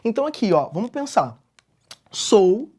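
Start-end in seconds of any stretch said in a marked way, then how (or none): 2.1-2.7 "Sou" as one isolated, louder syllable; "Sou" pronounced alone for counting; metrical syllable split. Shown as a demonstration. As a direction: set "Sou" apart as a single drawn-out beat. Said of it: "Eu separo metricamente".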